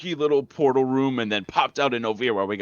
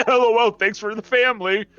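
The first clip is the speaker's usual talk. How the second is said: much higher put-on lady voice; wacky lady; 11 semitones higher, 3 dB louder than usual. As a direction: flippant mock-lady, pitched way up. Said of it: "And the lady was like".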